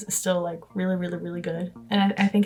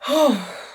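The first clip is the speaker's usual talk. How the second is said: out of breath sigh; 5 semitones higher than usual. Real, not acted. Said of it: "I'm so out of breath".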